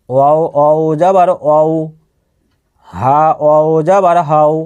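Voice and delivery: slow, even-toned recitation of letters; measured spelling drill. Shown as a demonstration. Teacher models Arabic letter spelling for learners, measured drill. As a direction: recite each syllable evenly, with pauses between.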